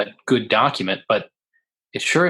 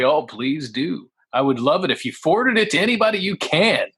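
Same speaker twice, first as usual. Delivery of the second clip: sarcastic dare; 4 semitones higher than usual. Retold or imitated. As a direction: draw out the dare, daring them to try. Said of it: "I was like".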